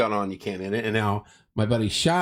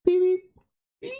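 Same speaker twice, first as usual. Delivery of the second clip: much higher, louder squeaky beeps like a panicked Muppet; high nervous Muppet beeping; Beaker; 4 dB louder than usual. Retold or imitated. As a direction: squeak out frantic little beeps. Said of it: "my Beaker imitation from the Muppets".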